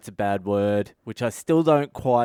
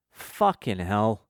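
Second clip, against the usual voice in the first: slow, drawn-out muttered curse of dismay; sighing exasperation; 2 semitones lower, slower than usual. Retold or imitated. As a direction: imitate a small kid swearing after a sigh. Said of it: "then sighs, like".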